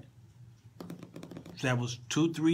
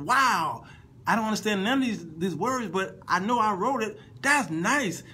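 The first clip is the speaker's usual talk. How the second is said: higher, lightly impressed reenactment; acted delight; 5 semitones higher than usual. Songwriter hearing his translated lyrics at rehearsal, acted delight. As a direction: play being pleasantly wowed, pitched up.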